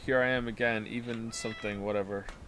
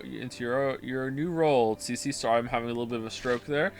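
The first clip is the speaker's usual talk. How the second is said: lower, softer reading of the characters' lines; voiced game dialogue; 4 semitones lower, 5 dB quieter than usual. Streamer reading game characters' lines in a subdued voice. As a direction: play each character quietly through the scene.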